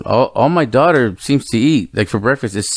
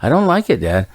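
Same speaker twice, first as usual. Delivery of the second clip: reluctant daughter. Retold or imitated. Voicing his reluctant young daughter.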